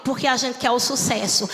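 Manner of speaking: ordinary delivery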